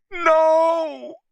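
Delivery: high, loud cry of protest. A narrator's reading. Woman crying out to stop the men, high and loud. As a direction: yell it in alarm. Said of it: "Anne cried".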